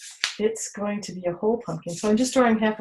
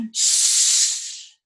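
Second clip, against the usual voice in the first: hush. Shown as a demonstration.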